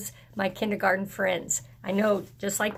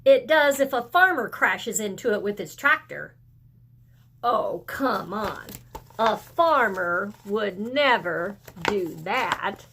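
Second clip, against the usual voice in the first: put-on excited child; 3 semitones higher than usual. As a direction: spill it out like an excited kid. The child tells the wild story.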